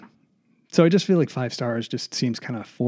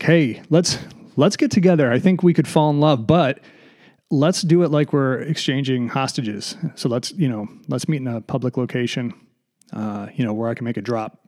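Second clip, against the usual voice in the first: eager date. Retold or imitated. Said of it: "so it's like".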